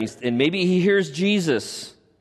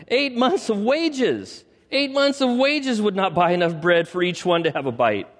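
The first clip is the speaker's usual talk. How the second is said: Philip's dismay; 6 semitones higher than usual. Acted. Philip's incredulous reply, acted.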